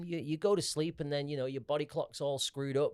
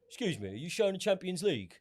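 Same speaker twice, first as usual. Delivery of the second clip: higher-voiced inquiring pigeon punter; mock polite bird; pigeon as customer; 4 semitones higher, 3 dB quieter than usual. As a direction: ask like a pigeon posing as a pub customer. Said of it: "the pigeon walked in and just went".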